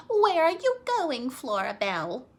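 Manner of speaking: high, loud mother calling after her. Acted. Mother calling after Flora as she runs out, loud. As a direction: call across the yard. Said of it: "She said".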